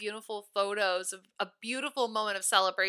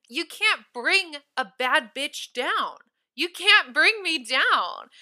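slow and emphatic, building louder; defiant; 5 semitones higher, 3 dB louder, slower than usual. Real, not acted. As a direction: hammer it home, slow and proud. Defiant punchline to the man.

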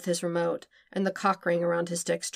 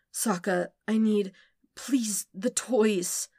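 desperate begging; 3 semitones higher, slower than usual. Acted. Overstimulated Zuko begging.

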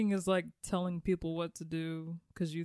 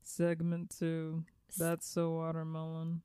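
impression of Kim; slower than usual. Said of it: "This is my impersonation of Kim".

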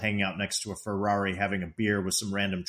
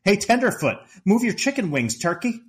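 higher, louder mock barroom yell; Clark yelling; 6 semitones higher, 3 dB louder than usual. Retelling Clark prodding the bartender, mock yelling. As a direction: call out cockily as if down the bar. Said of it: "yelling from down the bar".

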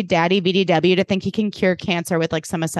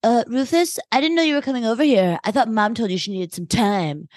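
lightly bitchy, higher and quick in the middle; mock-polite cattiness; 3 semitones higher than usual. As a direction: feign surprise with a catty edge. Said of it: "with a bitchy tone says".

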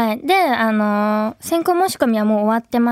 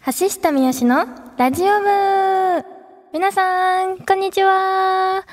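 radio host intro; 3 semitones higher than usual. Acted. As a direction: announce the show to listeners. Opens the radio show.

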